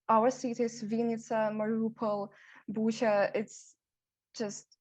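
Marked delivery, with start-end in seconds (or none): none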